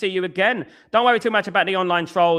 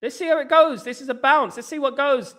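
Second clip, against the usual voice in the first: mock fan reaction; 8 semitones higher than usual. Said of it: "I'm like".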